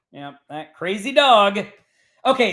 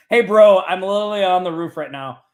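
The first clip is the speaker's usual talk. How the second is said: loud, fast mocking bro message; mock bro text; 6 dB louder, faster than usual. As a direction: rattle it off like a careless bro. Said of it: "Do not do that stuff".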